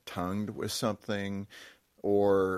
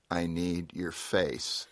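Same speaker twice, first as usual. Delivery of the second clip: slow, deliberate quoted demand; measured, emphatic retelling of a demand; retold firm demand; much slower than usual. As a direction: space out each word, imitating an insistent wife. Wife retold demanding his attention.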